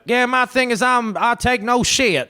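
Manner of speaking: high, mocking tough-girl voice. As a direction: parody a brash badass. Mocking a game character's attitude.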